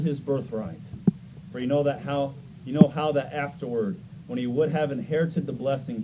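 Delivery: measured, emphatic Bible reading; scripture reading. Real, not acted. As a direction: read the verses out to a congregation. Reads scripture aloud to congregation.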